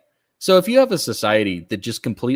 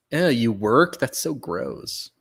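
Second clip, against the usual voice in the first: mock disgust; 4 dB quieter, slower than usual. Mocking an elitist's disgust.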